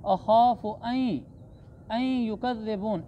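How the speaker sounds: अन merged into the y of युकज़्ज़िबून as "ayy-yu"; idgham merging. Shown as a demonstration. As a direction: recite अन युकज़्ज़िबून with the n swallowed into a held y. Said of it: "इसको इदगाम कहते हैं".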